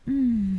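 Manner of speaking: sleepy yawn and hum. Real, not acted. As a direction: let out a sleepy yawn, falling away. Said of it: "Sorry guys for the yawning".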